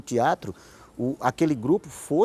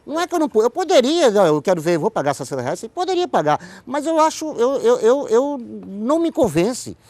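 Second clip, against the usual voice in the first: much higher and louder, wound up in indignation; heated protest; 9 semitones higher, 7 dB louder than usual. Real, not acted. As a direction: push back hard, voice climbing with outrage. Heated rant about ticket prices. (protesto exaltado, bem mais agudo e mais alto)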